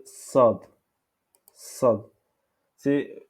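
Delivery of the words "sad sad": "sad" with a weighty emphatic s; Arabic "sad", s doubled in weight; lettre sad. Shown as a demonstration. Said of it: "c'est deux de sin". (« sad » avec s emphatique)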